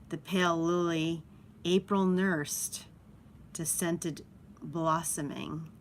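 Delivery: slow, drawn-out recital of a verse; poem quotation. Acted. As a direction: linger over each phrase of the quoted line. Quotes the poem's line again.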